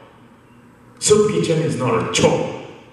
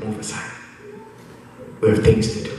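hushed angel; 2 semitones lower, 4 dB quieter than usual. Acted. Angel telling the dog to move aside, hushed. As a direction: quietly shoo someone out of the way.

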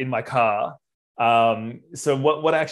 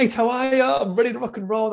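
bright, much higher chirpy hello; cheery greeting; 10 semitones higher than usual. Retold or imitated. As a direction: greet the groom with forced cheer. Greeting the groom cheerfully at door.

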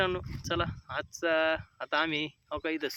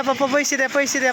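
imitating child; 10 semitones higher, 10 dB louder than usual. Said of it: "पप्पाकडे पैसे मागा".

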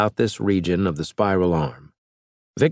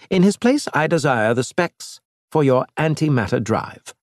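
higher-pitched alien envoy, scornful; lightly raised alien voice; alien Elge; 4 semitones higher than usual. Acted. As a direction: play the proud alien mocking the captain. Elge scheming.

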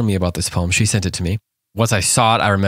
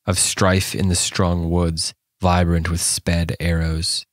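poem reading. Acted. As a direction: read it like a haunting poem. Reads the poem aloud.

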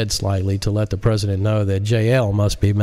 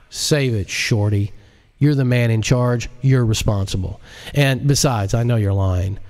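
curt, scornful character voice; a hint of a cocky hacker scolding; dismissive J L; 2 semitones higher than usual. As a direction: brush off his lie with contempt. J L cutting the president off.

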